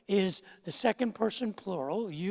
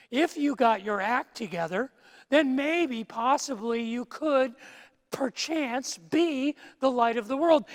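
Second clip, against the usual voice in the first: mock hedging; 2 semitones higher, 4 dB louder than usual. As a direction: pile on the conditions, mocking them. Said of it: "He doesn't say".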